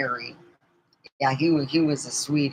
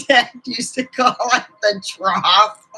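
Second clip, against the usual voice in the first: higher, louder, laughing through the words; 5 semitones higher, 4 dB louder than usual. Real, not acted. Daughter sharing dad's nickname for dinner, laughing. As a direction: crack up while getting the punchline out.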